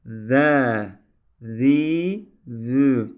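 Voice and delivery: "Ze", "Zi", "Zü" with the tongue tip bitten, a voiced th; teacher modelling the lisped Zel letter. Shown as a demonstration. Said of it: "Dilimizin ucunu ısırıyoruz".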